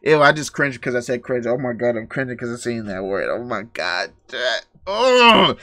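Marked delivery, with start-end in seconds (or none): 4.9-5.6 high groan of disgust. Real, not acted. Streamer reacting to milk, disgusted groan.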